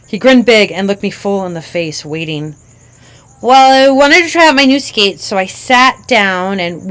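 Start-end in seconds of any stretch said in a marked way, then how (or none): 3.4-6.9 put-on higher, eager child; a kid launching into her tale; little girl voice. Child tells dad the story.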